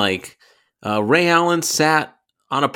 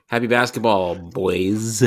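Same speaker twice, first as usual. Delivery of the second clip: annoying middle schooler voice; much slower than usual. Acted. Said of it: "annoying Jewish middle schooler".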